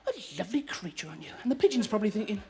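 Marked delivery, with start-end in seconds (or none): 0.1-1.3 soft cooing to the bird; tender to pigeon. Acted. Man admires pigeon, soft cooing voice. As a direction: coo it softly like to a pet. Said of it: "And you're thinking".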